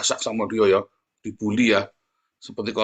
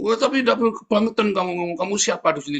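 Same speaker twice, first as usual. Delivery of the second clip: high-pitched mock indignation; imitating an affronted telling-off; retold indignant rebuke; 9 semitones higher, faster than usual. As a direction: protest as if offended, pitched well up. Retold rebuke from an offended man.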